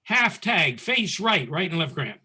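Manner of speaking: crisp, commanding drill-sergeant calling; military style call. Shown as a demonstration. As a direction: bark it out like a drill order. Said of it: "I'm gonna say it like a military basis".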